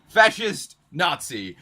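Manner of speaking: mildly mocking name-calling; mock accusation. Vlogger imitating people who throw labels around, mock accusation. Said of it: "And people will go".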